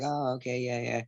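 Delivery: politely underwhelmed, voice dropped; imitated lukewarm crowd. Fighter imitating a crowd greeting him without enthusiasm, softly lukewarm. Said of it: "everybody's kinda like".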